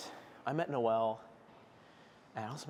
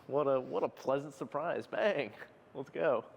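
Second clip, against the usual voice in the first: excited; 4 semitones higher than usual. Real, not acted. Celebrating a lifting PR.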